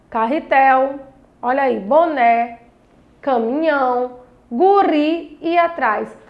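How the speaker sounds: slow word list. Shown as a demonstration. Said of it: "a sílaba mais forte foi a última".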